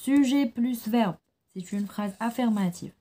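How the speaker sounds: put-on teacher dictating to children, slow and deliberate; slow dictation. Shown as a demonstration. Teacher to pupils, slow rule dictation. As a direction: rule spelled out slowly, word by word. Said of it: "Retenez bien".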